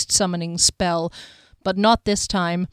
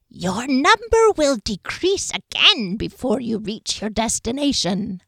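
slow, eerie seer voice; ominous fortune teller; diviner voice; 4 semitones higher than usual. Acted. Diviner character voice.

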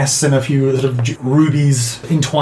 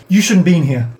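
put-on little boy; 3 semitones higher, 3 dB louder than usual. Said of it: "and the little boy says".

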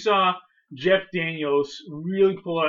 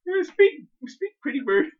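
parrot voice; 13 semitones higher than usual. Retold or imitated. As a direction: coax a pet bird to talk. Coaxing the bird, movie bit.

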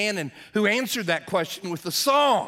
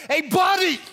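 high, loud parrot heckle; parrot yell; 10 semitones higher, 5 dB louder than usual. Acted. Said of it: "the parrot yelled out at the couple".

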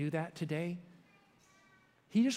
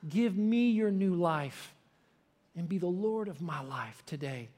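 earnest prayer; slower than usual. Retold or imitated. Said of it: "I called out on the name of Jesus".

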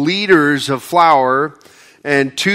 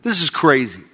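sarcastic scoffing. Retold or imitated. Royal officer scoffing at Elisha's prophecy, sarcastic. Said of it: "he's being sarcastic".

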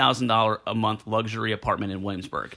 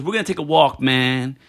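mock Puerto Rican; 3 dB louder than usual. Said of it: "he thinks he's Puerto Rican".

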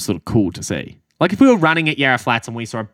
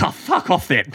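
mock deflated retort; 7 semitones higher than usual.

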